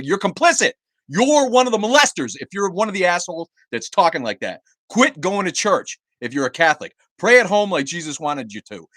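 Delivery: high, loud accusing rant; furious tirade. Real, not acted. Streamer berating Catholic viewers, loud angry tirade. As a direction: jab the blame straight at them. Ranting at churchgoers on livestream.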